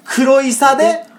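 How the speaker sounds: slow, clear Kagoshima dialect line for the echo; Kagoshima dialect recital. Shown as a demonstration. Host leading call-and-response with co-host, slow Kagoshima dialect. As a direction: lead the Kagoshima line slowly for a repeat. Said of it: "いきますよ".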